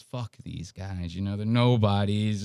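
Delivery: low, mildly dismissive imitation; derogatory brush-off. Host imitating how he brings them up, mildly derogatory. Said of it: "derogatory, like, almost pushed to the side".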